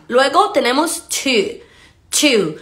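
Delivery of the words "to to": "to" with an oo vowel and aspirated t; correct pronunciation. Shown as a demonstration. Teacher modelling the word for learners, correctly pronounced. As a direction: say "to" as "too". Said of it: "No to".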